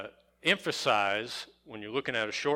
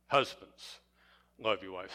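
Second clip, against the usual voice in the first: Husbands set apart, love your wives lower and softer; stress on Husbands; 4 semitones lower, 4 dB quieter than usual. Shown as a demonstration. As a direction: lean on Husbands, drop the rest. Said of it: "we emphasize the, the, the word".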